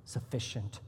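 slow, quiet mock legalist, fading to a whisper on "us". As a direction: drag it out like a smug gatekeeper, hush the last word. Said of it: "We say".

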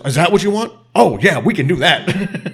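exaggerated, sing-song agreement; mock taunting. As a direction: play the taunting wrestler, stretching it out. Acting out Triple H's gleeful answer.

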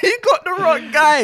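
slow, exaggerated dismissive line; slow put-on voice. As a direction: drag it out, mock serious.

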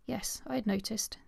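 a soft, gentle whisper; gently. Acted. The Earl reassuring the anxious young Horatia, gentle whisper. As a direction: soothe her gently, under your breath. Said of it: "the Earl answered gently".

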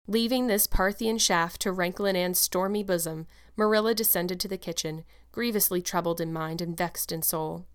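measured, expressive audiobook reading; story narration. A narrator's reading. Narrator follows the troubled guardian to the kitchen, measured storytelling. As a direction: wind the chapter down as a storyteller.

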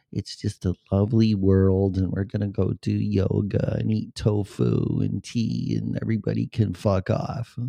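lightly sugary mock host voice; hammed-up lovely-world podcaster; mock sweet podcaster. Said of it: "I gotta talk like this".

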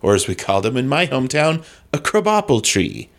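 odd theatrical comic inflection. Pretend. Comic guest explains his childhood accident, theatrical inflection. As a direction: ham it up with swooping intonation.

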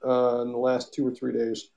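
talking through the hiccups. Real, not acted. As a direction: speak while hiccuping. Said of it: "I got the hiccups tonight".

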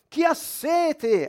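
high, drawn-out call to a crowd; urlo imitato. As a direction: act out crying aloud, stretching the words. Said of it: "si alza e comincia a urlare". (urlo imitato, acuto e prolungato)

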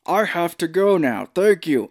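loud, laughing hurried goodbye; mock abrupt exit. Joking how the character could exit, loud laughing goodbye. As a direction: blurt the excuse and flee, laughing. Comic exit line, acted.

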